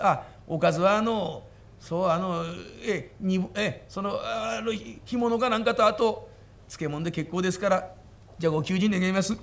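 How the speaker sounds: low, hesitant country lad fumbling words; bashful stammering bumpkin. Acted. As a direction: mumble the order shyly. Big man stammers order.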